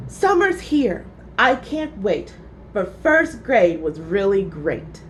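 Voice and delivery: sing-song recital; reciting a poem. A narrator's reading. Gilbert reciting his poem to parents, nervous recital. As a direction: step forward and recite. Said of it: "He said".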